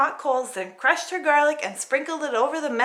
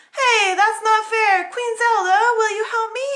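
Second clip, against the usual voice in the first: near-tearful protest; upset princess; 10 semitones higher, 6 dB louder than usual. Acted. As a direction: plead against unfairness. Paulina protests.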